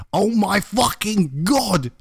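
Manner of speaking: slow, high-pitched squeal of words; mock scream. A narrator's reading. Fan hearing of a band's concert, mock scream. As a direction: scream it in mock fangirl excitement, without volume. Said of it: "I screamed".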